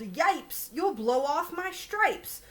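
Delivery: a mild mock yell, slow; zebra yelling. Zebra warns the elephant, mild mock yell. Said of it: "The zebra yelled".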